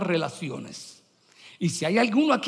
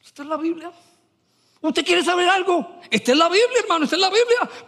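excited proclaim; 8 semitones higher, faster than usual. Acted. Preacher proclaiming the Bible's truth.

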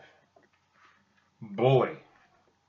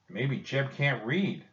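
kind voice; 2 semitones higher, slower than usual. Acted. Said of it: "Will said in a kind voice".

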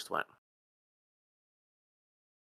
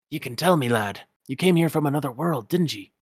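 put-on confiding old Scotsman, a bit higher; Scrooge McDuck; 3 semitones higher, 3 dB louder than usual. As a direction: lean in and coax him, Scottish lilt. Scrooge voiced.

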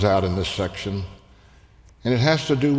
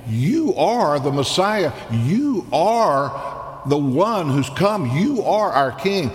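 higher, slow, joyful proclamation; crowd proclaiming; 7 semitones higher, slower than usual. Retold or imitated. Children hailing Jesus as king in the temple, joyful and slow. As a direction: announce the king with wonder. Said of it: "They are saying".

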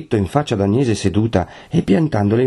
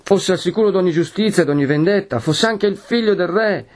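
mild anguish climbing to high intensity; heartbroken but resolute; 6 semitones higher than usual. A narrator's reading. Lucia confronts her betrothed, heartbroken yet resolute. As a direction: build from sorrowful reproach to firm protest. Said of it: "con voce accorata ma risoluta".

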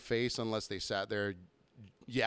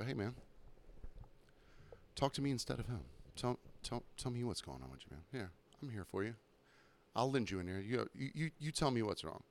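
softer, soothing, eerily calm; calm psychopathic energy; 8 dB quieter than usual. Shown as a demonstration. Bartender talks to one of two arguing drunks, soft eerie calm. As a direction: talk them down gently with an unsettling calm. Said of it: "with some nice, calm, psychopathic energy".

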